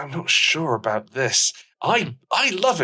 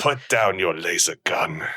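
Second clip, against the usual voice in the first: put-on lower, slow seductive Spanish accent; 7 semitones lower than usual. Carl woos Sarah on the dance floor in a low Spanish accent. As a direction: purr in a low Spanish accent to charm her. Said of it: "traditional Spanish accent".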